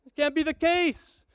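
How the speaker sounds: sudden high, loud disbelief; shocked what. Acted. Speaker mock-shocked to find it's March, a loud high what. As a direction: yelp of disbelief at the calendar.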